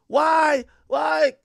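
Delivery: high, whiny pleading; mock crying. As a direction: imitate her tearful protest. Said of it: "A bunch of crying".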